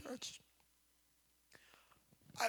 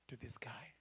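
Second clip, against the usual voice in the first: whisper; 10 semitones lower, 15 dB quieter than usual. Real, not acted. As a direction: drop to a breathy whisper. Preacher drops to whisper.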